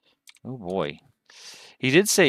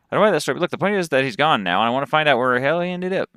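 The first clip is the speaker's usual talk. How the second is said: lively Southern cowboy voice, pitched up; cowboy accent; 6 semitones higher, 4 dB louder, faster than usual. Acted. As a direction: play a cowboy storyteller with a Texas accent. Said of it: "that's the accent I chose".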